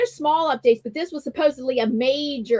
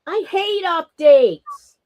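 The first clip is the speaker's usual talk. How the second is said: slow, sulky complaint; complaining; 3 semitones higher, 5 dB louder, much slower than usual. Retold or imitated. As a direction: less whiny gripe. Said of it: "Except it's whinier when it comes from me".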